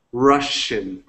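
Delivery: "Russian" with a clear sh in the middle; sh pronunciation. Shown as a demonstration. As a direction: model "Russian" carefully, sh and no ch. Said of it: "es más S H".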